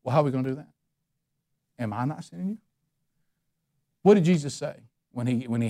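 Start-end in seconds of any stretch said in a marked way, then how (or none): 1.8-2.6 soft gentle question. Acted. God's question repeated softly.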